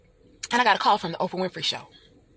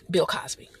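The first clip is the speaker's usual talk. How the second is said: hushed whisper of the name; 4 semitones lower than usual. Retold or imitated. Speaker confiding a famous name, whispered.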